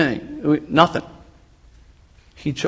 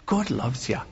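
softer imitation of the TV angel's accent on "God loves ya"; lightly put-on angel accent, "God loves ya"; 8 dB quieter than usual. Pastor repeats the TV angel's line to the congregation, soft accent. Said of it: "with an accent, it's even better".

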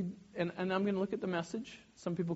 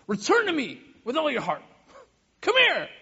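raised voice climbing to a shout; exasperated parent; 9 semitones higher, 10 dB louder than usual. Retold or imitated. Parent calling a child in anger, a sharp raised call. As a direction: call a kid back, losing patience. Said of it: "how I might speak to Mayal or Elliot in a time of desperation or a time of anger".

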